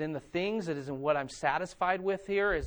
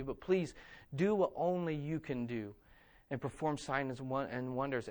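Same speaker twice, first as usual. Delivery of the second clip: earnest prayer; 3 semitones lower than usual. Acted. Voices the church's prayer.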